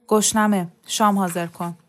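curt, dry demand. Acted. Husband to wife on coming home, dry voice. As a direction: say it drily, as a brusque order. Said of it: "با صدای خشکی گفت".

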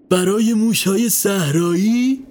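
drawn-out astonished question; taken aback. A narrator's reading. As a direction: echo it in disbelief, lifting the end. Man steps back, startled by answer.

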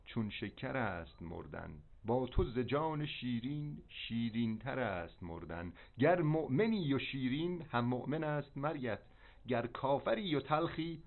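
slow, measured verse recitation; poetry recitation. Acted. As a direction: recite the lines like a poem.

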